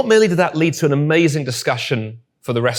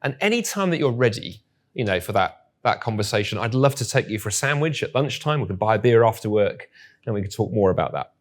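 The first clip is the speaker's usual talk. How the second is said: mildly gentle, soft retold reply; 2 semitones lower, 3 dB quieter than usual. John reassuring his hesitant colleague in the staff room, gently. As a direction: offer it softly and gently, no pressure. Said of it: "very gently say".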